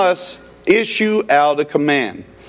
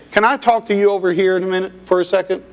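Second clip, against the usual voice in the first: huffy request; much faster than usual. Retold or imitated. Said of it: "Martha did this with a huff".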